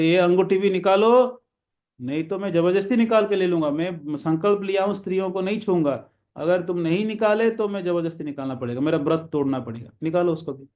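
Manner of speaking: retold threatening demand. Robber demands the merchant's wife's last ring, acted threat. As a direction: press the demand like a storybook robber.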